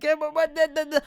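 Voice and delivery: put-on old Brooklyn lady voice. Shown as a demonstration. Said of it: "I do sound like an old Jewish old lady from Brooklyn".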